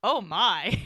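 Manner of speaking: imitated admiring gasp of words; lightly acted swooning reaction; smitten reaction. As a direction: play her as mildly swept away. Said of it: "her reaction is like".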